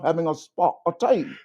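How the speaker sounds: lightly put-on British accent; a hint of playful British; mock British accent. Guest at a tea party, light mock British accent. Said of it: "in my British accent".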